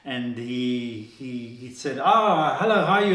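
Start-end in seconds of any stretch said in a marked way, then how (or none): 2.0-3.1 high, loud, delighted hello; imitating an overjoyed lecturer calling out hello; bright greeting. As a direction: greet an old friend with delight. Leo greets the student again.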